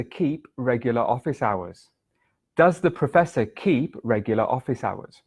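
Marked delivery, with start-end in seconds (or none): 2.6-5.2 breathy whispered repeat. Shown as a demonstration. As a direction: whisper the sentence through. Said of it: "The sentence was".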